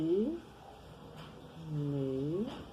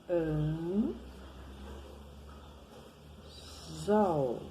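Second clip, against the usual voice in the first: syllable by syllable. Shown as a demonstration. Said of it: "Olha o L, que também tem som de U".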